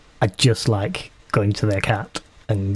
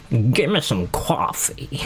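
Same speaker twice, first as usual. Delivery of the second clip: whisper; 2 semitones higher, slower than usual. Real, not acted. Whispered aside while shopping.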